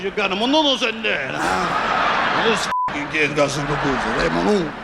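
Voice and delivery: put-on light Italian mobster accent; hint of a mob boss doting on the kid; Mafia accent. Mobster welcomes the kid, light Mafia accent. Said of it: "interesting Mafia accent".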